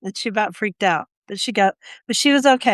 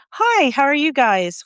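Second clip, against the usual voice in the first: higher, drawn-out hello; friendly shop greeting, voiced higher; retold customer greeting; 5 semitones higher than usual. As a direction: re-enact greeting customers, pitched up.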